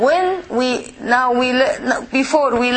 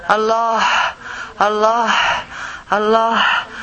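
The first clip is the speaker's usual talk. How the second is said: loud Allah; 2 semitones lower, much slower than usual. Shown as a demonstration. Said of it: "No, loudly".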